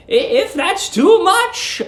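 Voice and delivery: put-on high, slow, sugary old lady; sweet landlady. Landlady luring the young lodger, high sugary coo. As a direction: coo at him like a doting landlady.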